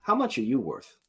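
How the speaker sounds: lightly voiced goblin question; scheming goblin. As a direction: size up the captive as a goblin. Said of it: "He turns to you and says".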